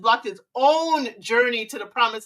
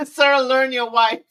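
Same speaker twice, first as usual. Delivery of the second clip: slow and emphatic, louder; firm scolding; 6 dB louder, slower than usual. Real, not acted. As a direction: spell it out to him slowly. Scolding the husband.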